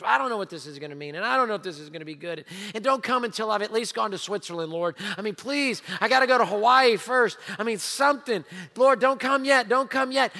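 lightly voiced anxious pleading; mock worried believer. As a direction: plead half-jokingly with the Lord. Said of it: "we're afraid of the second coming".

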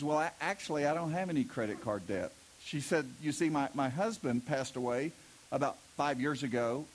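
put-on gently, like a comfortable old lady; lightly voiced widow. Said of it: "widow lady".

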